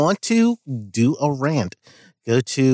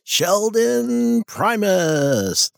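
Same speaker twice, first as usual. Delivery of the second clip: announcer name drop; 9 semitones higher, much slower than usual. Acted. Host announces own name dramatically.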